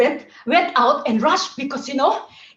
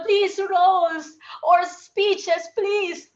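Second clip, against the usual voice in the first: mock begging; 4 semitones higher, much slower than usual. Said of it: "begging them".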